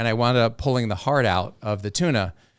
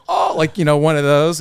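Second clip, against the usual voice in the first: excited scream; 4 semitones higher, 6 dB louder than usual. Retold or imitated. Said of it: "he's, like, screaming".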